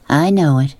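lightly gravelled, each word stamped out; a touch of gravel, words cut short and strange; gravelly, clipped. Acted. New girl answers the boys back, slightly gravelly and clipped. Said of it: "Her voice was gravelly and deep, and the words sounded clipped and strange".

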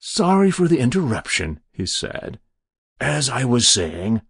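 unruffled stranger resuming business; polite stranger. Acted. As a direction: brush off the interruption with airy courtesy.

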